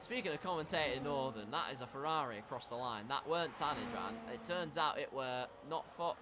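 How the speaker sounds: lightly put-on Yorkshire commentator; attempted Yorkshire accent. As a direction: have a go at Northern English commentary, Yorkshire style. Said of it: "Stop trying the Yorkshire accent".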